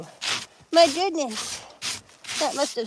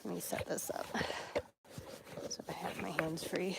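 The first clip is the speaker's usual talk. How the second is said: soft whisper, barely voiced; whispered aside; 4 semitones lower, 9 dB quieter than usual. Real, not acted. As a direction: whisper it while fumbling with the camera. Quiet aside while setting up.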